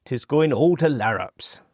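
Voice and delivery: 'Tis going all to larrups in a broad Cornish lilt; Cornish dialect. Shown as a demonstration. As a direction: say it like an old Cornishman. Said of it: "me Cornish dialect".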